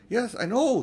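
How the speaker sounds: impatient, brushing him off; cross. Acted. Lucy cuts off Aslan while tending Edmund, crossly. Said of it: "said Lucy crossly".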